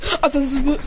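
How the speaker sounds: stammering. Acted. Acted stammer before speaking.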